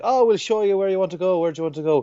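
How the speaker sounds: high, bright-eyed helpful host voice; eager local host. Retold or imitated. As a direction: play the keen tour guide. Locals offering to show visitors around.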